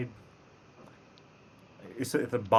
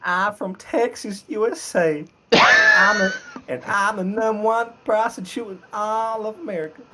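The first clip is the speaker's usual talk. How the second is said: attempted American accent; 10 semitones higher than usual. Shown as a demonstration. Texan introducing themselves to America, exaggerated American accent. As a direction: boast in a hammed-up American accent. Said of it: "give us your American accent".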